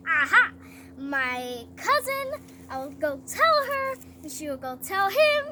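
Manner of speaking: acted eureka, pitch jumping on key words; sudden bright idea. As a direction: play a schemer hatching a plan. Mordecai gets an idea.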